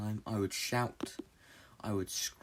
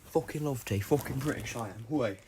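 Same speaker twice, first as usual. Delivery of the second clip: loud and gleeful about tea; cheerful enthusiastic outburst; excited; 3 semitones higher, 6 dB louder than usual. Real, not acted.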